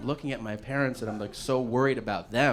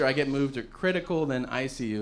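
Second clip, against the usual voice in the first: ordinary delivery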